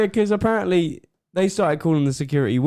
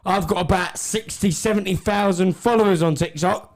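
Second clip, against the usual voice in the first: higher-pitched imitation of a self-important boaster; mock boasting; 4 semitones higher, slower than usual. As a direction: show off like a would-be celebrity, mockingly. Mimics woman boasting about followers.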